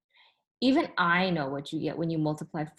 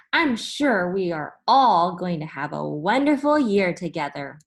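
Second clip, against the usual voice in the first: cheerful principal; 5 dB louder than usual. Acted. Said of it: "he said cheerfully".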